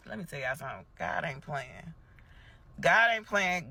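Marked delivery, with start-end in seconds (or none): 1.0-1.9 softer, knowing aside. Acted. Repeated declaration, first take. 2.8-3.7 louder and higher, preaching it; emphatic declaration. Acted. Repeated declaration, second take.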